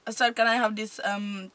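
imitated Indian shopper; put-on Indian accent. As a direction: ask politely in an Indian accent. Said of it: "He says, when you".

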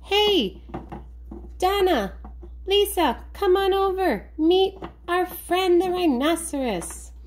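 high-pitched puppet duck calling. Pretend. Casey the duck calls two sisters over, high calling voice.

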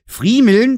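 Friemeln said slowly with a rising tune; dialect word friemeln. Shown as a demonstration. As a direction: Friemeln drawn out in Saxon dialect. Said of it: "das ist das, was ich vorhin".

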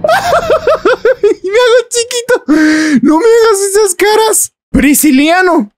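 put-on high, sing-song baby talk to an infant. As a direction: coo at the baby in a tiny high voice. Talking to the baby.

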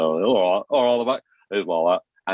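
breezy host greeting the crowd, all right all right; Michael Barrymore impression. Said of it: "Michael Barrymore".

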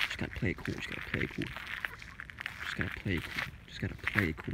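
soft whispered mantra; soft, sneaking past the duck gang; mock whisper.

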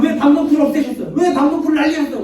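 mock-furious demand for an explanation; angry protest. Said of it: "막 화, 또 화를 내는 거예요".

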